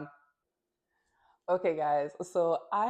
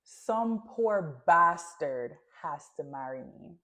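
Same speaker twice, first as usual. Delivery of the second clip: slow pointed quote; slower than usual. Retold or imitated. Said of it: "Here's what she said".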